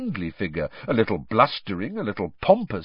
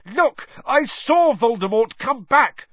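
shouted; 11 semitones higher, 3 dB louder than usual. A narrator's reading. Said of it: "Harry shouted".

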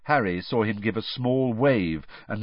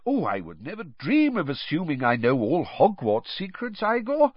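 amicable; 7 semitones higher than usual. Acted. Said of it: "said Dumbledore amicably".

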